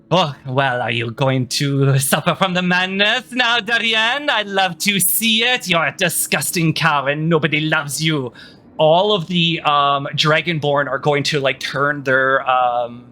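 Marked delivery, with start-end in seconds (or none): 0.1-8.3 lilting, taunting queen; egging him on. Acted. Queen taunts the panicking Minotaur, egging him on. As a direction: needle him with mock concern, rising on the name. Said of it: "she will start to egg him on again".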